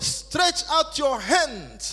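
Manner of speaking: high, loud, booming, commanding voice.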